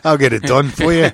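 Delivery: loud, British gone Australian; bad Australian accent. Promising a London tattoo, bad Australian accent. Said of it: "go from British to Australian".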